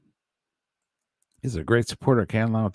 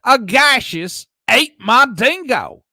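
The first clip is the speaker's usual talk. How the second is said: loud dramatic read; 12 semitones higher, 9 dB louder, slower than usual. Pretend. Rereads chat after "what happened.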